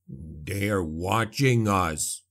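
low, very slow growl; dwarf warns Felix of watchers, growling low. Acted. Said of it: "he growled".

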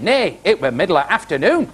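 put-on Yorkshire accent. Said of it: "he was from Barnsley".

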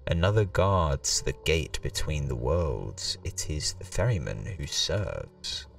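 slow, solemn storyteller voice; dramatic reading. Acted. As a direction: read it like an ominous legend. Reads game intro dramatically.

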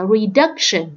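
"reduction" stressed on DUC; second-syllable stress. Shown as a demonstration. Teacher repeating the odd word out, second-syllable stress. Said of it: "nhấn vào âm thứ hai".

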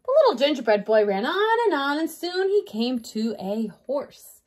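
put-on measured, expressive read-aloud to children; story narration. A narrator's reading. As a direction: read a picture book to a young class.

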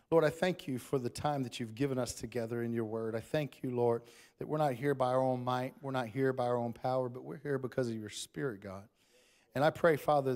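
heartfelt pulpit prayer, building and then settling; closing prayer. Acted. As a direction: pray over the congregation with rising fervour.

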